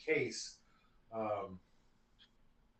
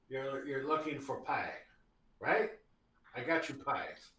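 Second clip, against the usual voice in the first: put-on Scottish accent; 3 semitones lower, 3 dB quieter than usual. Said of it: "more of a Scottish accent".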